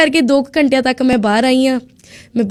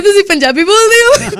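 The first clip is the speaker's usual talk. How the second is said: higher and laughing, delighted relief; overjoyed question; 8 semitones higher, 4 dB louder than usual. Retold or imitated. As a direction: ask it bursting with happy surprise. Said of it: "ਮੈਂ ਖੁਸ਼". (ਖੁਸ਼ੀ ਨਾਲ ਹੱਸਦੇ ਹੋਏ ਉੱਚਾ ਸਵਾਲ)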